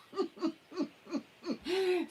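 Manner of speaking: a loud, high burst of laughter; a big, bright laugh; real laugh. Real, not acted. Laughs loudly at the story.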